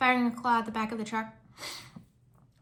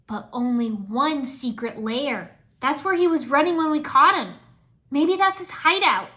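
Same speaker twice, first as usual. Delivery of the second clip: suggesting; 4 semitones higher, 8 dB louder, slower than usual. Acted. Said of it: "Nia suggested".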